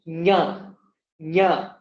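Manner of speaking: nya through the nose; nasal nya. Shown as a demonstration. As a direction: open the nose on ja. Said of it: "pronounce it through my nose".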